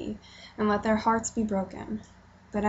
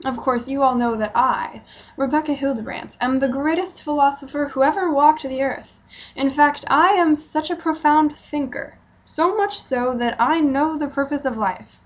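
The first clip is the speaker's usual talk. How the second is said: higher, louder, hammed-up self-praise; mock grandiose boast; 4 semitones higher, 4 dB louder than usual. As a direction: play the pompous great philosopher. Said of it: "who am I kidding?".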